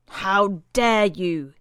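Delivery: slow, hissed furious whisper. A narrator's reading. Brother Timothy to Cassidy, slow furious whisper. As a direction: seethe it under your breath.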